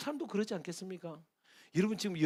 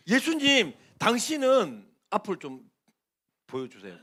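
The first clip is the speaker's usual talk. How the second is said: 원망하는 종; 3 semitones higher, 8 dB louder than usual. Acted. 종의 원망을 흉내 내는 장면.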